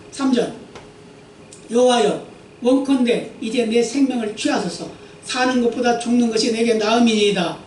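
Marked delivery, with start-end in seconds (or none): 1.7-7.6 또박또박 경건하게 읽는 성경 낭독; 회중 앞에서 말씀을 엄숙히 읽어 주듯. Acted. Reads scripture aloud. (설교자가 회중에게 본문을 읽어 주는 경건한 낭독)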